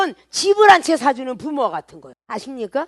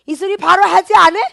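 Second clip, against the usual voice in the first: ordinary delivery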